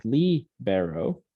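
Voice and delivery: slow LEE... be-ro; stress on first syllable. Shown as a demonstration. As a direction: stretch the LI of libero. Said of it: "with that accent mark".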